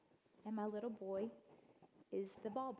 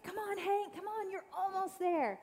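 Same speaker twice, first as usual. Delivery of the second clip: high, bright-sister encouragement voice, much higher; cheering big sister; 9 semitones higher, 5 dB louder than usual. Retold or imitated. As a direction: urge him on like an eager older sister. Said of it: "she's like".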